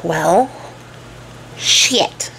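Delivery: breathed under the breath; whispered curse. Retold or imitated. Cornered king swearing under his breath, whispered. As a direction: curse it so nobody hears.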